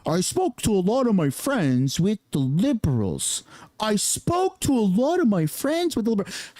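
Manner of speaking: lightly voiced dopey politician; mocking the politician. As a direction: drag it out like a dork. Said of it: "this dork just said".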